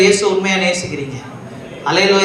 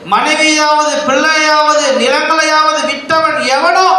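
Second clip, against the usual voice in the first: drawn-out list, gradually rising in pitch; scripture recitation; 5 semitones higher, much slower than usual. Acted. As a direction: intone each item to the congregation. (வேத வசனத்தை இழுத்து வாசிக்கும் தொனி)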